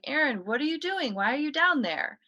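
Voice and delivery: high, puzzled calling. Retold or imitated. Boy calling down to his sister, high and confused. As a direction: ask her down the stairs, lifted high.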